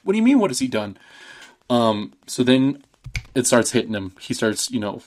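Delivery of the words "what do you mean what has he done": shrill alarm, half acted; mom freaking out. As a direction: mom panicking as her husband spits up poison. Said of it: "the mom's freaking out".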